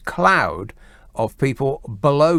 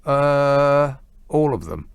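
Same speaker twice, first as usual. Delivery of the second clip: mimicking clueless answer; much slower than usual. Radio host mimicking people who want rid of laws, mock clueless.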